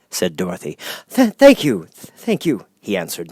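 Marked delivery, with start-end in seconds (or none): 1.1-2.7 put-on higher, halting old wizard, tripping on words; a nervous humbug who can't get a sentence out; stammering wizard. A narrator's reading. The Wizard stammers his plan to Dorothy, halting. Oz thanks her.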